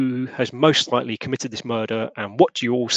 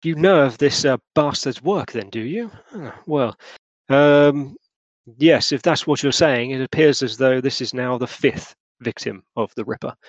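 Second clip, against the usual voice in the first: Lusk's voice. Acted. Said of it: "Mister Lusk turns at you and goes".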